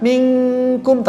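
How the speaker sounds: minkum with thin kaf, slowly; contrast minkum. Shown as a demonstration. Teacher contrasting thin kaf with qaf. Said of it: "Beda ya".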